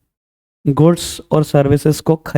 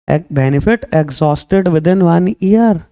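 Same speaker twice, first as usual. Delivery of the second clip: very slow, word by word; slow dictation; much slower than usual. Shown as a demonstration. Teacher repeating the definition slowly for the class. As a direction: drag each word out for notes.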